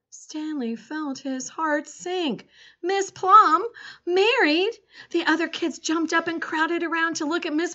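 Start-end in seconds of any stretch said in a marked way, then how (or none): 2.8-4.7 high, loud disbelief; shocked. A narrator's reading. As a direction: gasp it out in shock. Stanley shocked by news.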